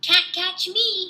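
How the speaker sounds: put-on high, slow, taunting toddler shout; toddler hollering. A narrator's reading. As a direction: tease them like a little boy running off. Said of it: "he hollered".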